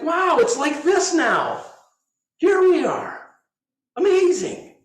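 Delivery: high, loud, slow marveling; delighted wonder. Retold or imitated. Teacher to cooks at the broken pot, high slow wonder. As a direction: savor the moment, high and amazed. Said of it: "he's like".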